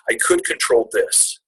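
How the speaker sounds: fighting back tears on the words; real emotion breaking through the line. Real, not acted. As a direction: pitch cracks way up, slow and choked. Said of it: "Okay, sorry".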